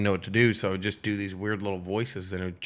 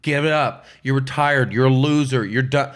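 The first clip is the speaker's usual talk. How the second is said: louder, emphatic write-off; mock dismissive analyst; 2 semitones higher, 5 dB louder than usual. Sports analyst declaring a golfer finished, mock dismissive. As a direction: lightly imitate a pundit's blunt verdict. Imitates TV analysts writing off Tiger.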